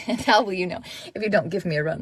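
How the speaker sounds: quick, amused re-read of the line; amused repeat. Retold or imitated. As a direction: chuckle through it again. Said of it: "That's funny".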